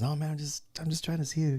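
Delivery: imitating a real soft voice; softly hesitant, as an imitation; soft-voiced friend. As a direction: play a meek, soft-spoken buddy. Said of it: "he's got a real soft voice".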